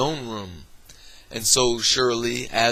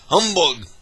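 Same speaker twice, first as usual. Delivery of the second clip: scornful humbug; 6 semitones higher, 6 dB louder than usual. Acted. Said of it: "said Scrooge".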